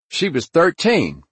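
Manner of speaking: loud, high, slow angry cry; furious accusation. Acted. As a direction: hurl it slowly at him in fury. Furious accusation before shooting him.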